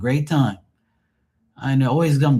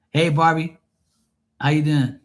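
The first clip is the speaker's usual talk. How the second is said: mock innocent; 5 semitones higher than usual. Drunk guest acts innocent.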